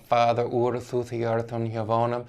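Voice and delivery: Father ur said like fah-ther oor; Anglo-Saxon read aloud. Shown as a demonstration. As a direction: read the Old English line carefully. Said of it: "Let's just point out".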